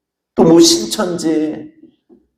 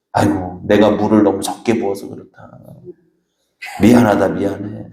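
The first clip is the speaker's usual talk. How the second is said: apologetic mother-in-law; 5 semitones lower than usual. Retold or imitated. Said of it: "시어머니가 오더니 그래요".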